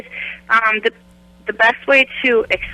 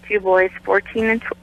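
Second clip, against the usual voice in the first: hiccuping mid-sentence; talking through hiccups. Real, not acted. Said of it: "I have the hiccups".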